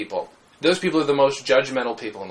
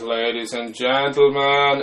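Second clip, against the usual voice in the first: put-on slow, drawn-out German-villain accent; theatrical German-accented villain greeting; Hans Gruber; slower than usual. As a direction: stretch it out like a suave German bad guy. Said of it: "I was Hans Gruber".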